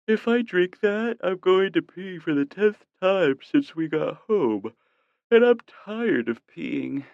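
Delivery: put-on a tired girlfriend grumbling; sleepy woman. A narrator's reading. Sleepy girlfriend voiced in bed.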